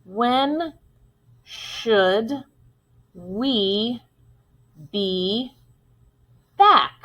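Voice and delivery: long pauses between words; one word per line drawn; very deliberate, separated dictation. Shown as a demonstration. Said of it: "say the sentence as I make my five lines".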